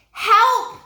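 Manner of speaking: loud, high yelp; a jumpy cry for help; startled cry. Acted. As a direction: call out in fright. Startled by screech.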